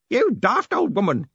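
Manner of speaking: high, slow, indignant yell; old man's yell. A narrator's reading. Grote scolding the woman in the crowd, yelling. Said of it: "Grote yelled".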